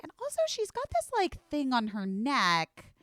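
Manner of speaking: mimicking the vet's worried aside; imitating the vet. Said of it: "And then she was like".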